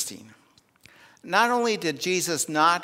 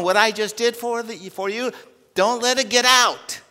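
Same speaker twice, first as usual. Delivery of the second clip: higher and louder, pressing the command home; vehement warning; 6 semitones higher, 4 dB louder than usual. Acted. Preacher voicing Jesus ordering silence, vehement warning. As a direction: urge them hard not to spread it. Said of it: "harshly, vehemently".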